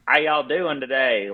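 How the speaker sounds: guttural redneck Southern greeting, high and slow; redneck Southern accent. Shown as a demonstration. Guest shows hosts the other extreme, redneck Southern accent. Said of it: "redneck kind of guttural".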